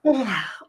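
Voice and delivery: soft fake yawn. Shown as a demonstration. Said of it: "a fake yawn like this".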